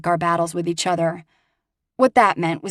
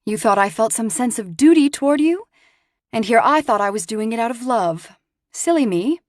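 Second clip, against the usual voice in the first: sarcastic, higher and louder; mock hurt turned to scorn; cutting sarcasm with a bitter sting; scathing disdain; 5 semitones higher, 4 dB louder than usual. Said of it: "Her tone was scathing".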